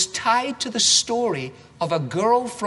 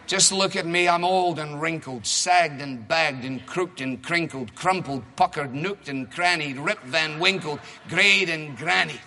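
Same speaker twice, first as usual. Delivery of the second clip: rhymed storybook reading to a congregation; reading a story; 3 semitones lower than usual. Acted. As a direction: read it like a picture book for kids. Reading Naomi's and Ruth's rhymes.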